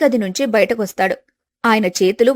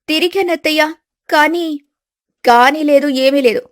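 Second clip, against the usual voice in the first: higher, hesitant daughter-in-law; a timid bride caught out; young wife's voice; 4 semitones higher than usual. Acted. Daughter-in-law Siri admitting it to her mother-in-law, higher timid voice.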